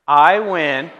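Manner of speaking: a short unison declaration; read aloud together. Shown as a demonstration. Church declares it after the countdown, firm. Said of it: "Everybody, one, two, three".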